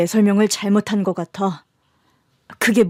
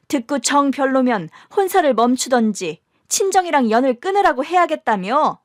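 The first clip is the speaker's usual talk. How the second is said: angry accusation. Acted. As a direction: throw his own words back at him. Couple quarrel, wife accuses husband.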